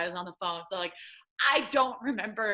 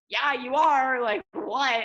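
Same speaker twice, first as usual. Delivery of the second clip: impatient demand; 6 semitones higher, 7 dB louder, slower than usual. Retold or imitated. Demanding coach tell news.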